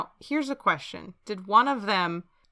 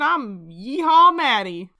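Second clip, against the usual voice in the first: slow, louder drawn-out cowboy intro; proud cowboy; 4 semitones higher, 6 dB louder, slower than usual. Pretend. Cowboy introducing herself to the ghost, slow proud. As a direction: announce your name grandly.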